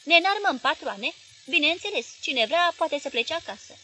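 rally the room, loud; loud defiant shout. A narrator's reading. Nichi shouting to the owner that they will arm themselves, loud and fired up. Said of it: "strigă deodată Nichi".

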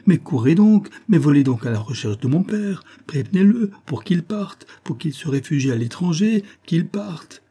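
high-pitched, pressing exclamations; urgent pleading. A narrator's reading. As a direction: urge him off in alarm. Daughter urging man to save father.

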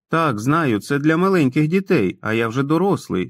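put-on sheepish grown man who talks like a boy; childlike Tom. Narrator voices childlike Tom. (несміливий дитячий голос Тома)

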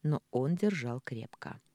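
usual speaking voice

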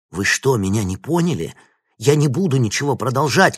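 loud, rising refusal shouted. A narrator's reading. Vinnik refuses Grekov, shouting loud. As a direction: yell the refusal, punch буду. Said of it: "крикнул Винник".

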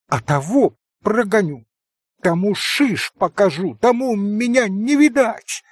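rising to a hysterical shout; hysterical cry. A narrator's reading. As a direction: Grushenka cries out hysterically. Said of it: "истерически прокричала".

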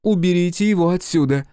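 high, loud order; shout. A narrator's reading. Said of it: "крикнула Ван Стратен".

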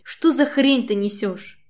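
ordinary delivery

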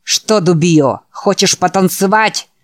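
sneering, half-whispered taunt; menacing taunt. Acted. Bully taunts before fight.

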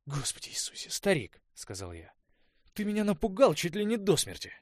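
startled outburst, rising to a high loud cry; испуганный вскрик. A narrator's reading. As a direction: jump out of your skin and yell at him. Испуг от хлопнувшей двери. (испуганный возглас)

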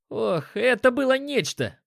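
high, thrilled outburst; excited exclamation. A narrator's reading. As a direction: exclaim it like an awestruck eyewitness. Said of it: "воскликнул Тарион".

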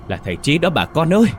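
high, loud shocked cry to the neighbors; man shouting to the crowd in shock; shocked call out. A narrator's reading. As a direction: call out the victim's name in alarm. Man recognizes the crash victim.

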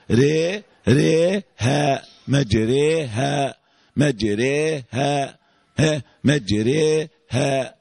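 "ريها" slowly, long e on raa then open a on haa; demonstrated imala. Shown as a demonstration. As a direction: draw out "مجريها" as majreeha, the e short of a full i. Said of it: "مش بعمله ياء".

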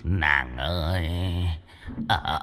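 sleep mumbling. Acted. Ghost mumbling in his sleep to a lady, soft and slow. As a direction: drool and murmur to a dream girl. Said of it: "không ngừng lẩm bẩm".

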